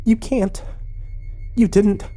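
high, stunned disbelief; horrified. A narrator's reading. Emma learning the pictures are burned, horrified. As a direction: gasp it out high, in dawning horror. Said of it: "eyes widened and her face paled".

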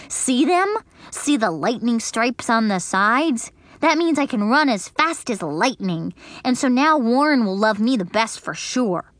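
lightly voiced bragging girl; girl bragging to her friend; little girl Grace. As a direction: boast about fast shoes. Grace's voice in the story.

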